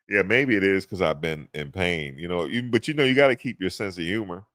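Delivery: normal talking voice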